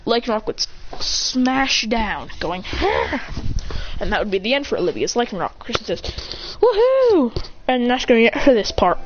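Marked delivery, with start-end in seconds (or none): 2.7-3.9 high, rough-edged battle noise; attack cry. Acted. Lycanroc smashing down, high attack cry. 6.6-7.3 loud, high whoop; victory cheer. Acted. Trainer winning the battle, loud high victory cheer.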